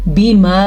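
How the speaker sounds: बिमा with the madd held; drawn-out बिमा; long madd. Shown as a demonstration. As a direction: stretch बिमा. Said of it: "तो हम इस मद को पढ़ेंगे".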